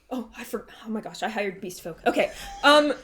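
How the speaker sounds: lightly voiced pompous innkeeper; fluster, then ask awkwardly; flustered bossy voice. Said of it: "he goes".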